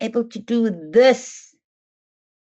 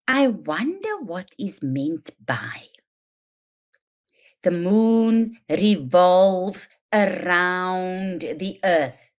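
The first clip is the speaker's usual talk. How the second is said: think-aloud modelling; 3 semitones lower, slower than usual. Shown as a demonstration. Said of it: "You're going to say".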